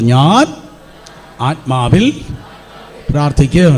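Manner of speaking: loud, spaced call-and-response. Shown as a demonstration. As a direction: shout it out word by word for the church to echo. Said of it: "ഒരിക്കൽ കൂടെ ശബ്ദം ഉയർത്തി പറ".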